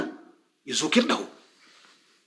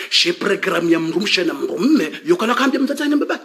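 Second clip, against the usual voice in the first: laughing while talking. Real, not acted. Mocking the TV program to viewers, laughing. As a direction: chuckle through the description.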